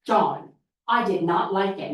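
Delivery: firm "John, I did not like it." with "not" leaned on, falling; assertive voice. Shown as a demonstration. Child practicing standing up to John, firm and assertive. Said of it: "We're gonna practice our assertive voice".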